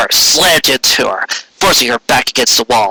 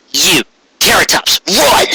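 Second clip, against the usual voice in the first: urgent order; 5 semitones higher, slower than usual. Acted. Raindrops ordering Trixie to flee, high urgent shout. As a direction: push her out the door.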